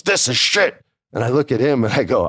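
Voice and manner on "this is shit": pitched way up, blunt verdict; disgusted verdict. Retold or imitated. Boss tells the writer the promo failed, disgusted. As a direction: spit it out in disgust. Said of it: "and he goes".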